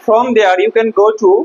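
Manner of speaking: slow, deliberate model sentence; slow reading. Shown as a demonstration. Teacher reading the textbook line slowly to the class. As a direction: spell it out slowly for the pupils. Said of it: "teacher reads sentence slowly".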